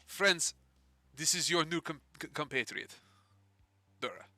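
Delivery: light put-on French accent; Eleanor, French accent. Guild boss introducing a new compatriot to the party, French accent. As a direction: address them in a French accent. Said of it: "No, I can do French".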